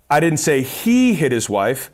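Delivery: he punched, rising end; stress on HE. Shown as a demonstration. Showing how stress on he changes a sales line. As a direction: lean on the word he in I didn't say he hit his wife. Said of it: "four different ways of saying that statement".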